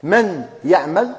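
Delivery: من يعمل said as "miyyaʕmal", slow, nun merged into the ya; drawn-out "miyyaʕmal"; slow merged demo. Shown as a demonstration. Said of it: "ننطقوا حرف واحد". (من يعمل ببطء بالإدغام)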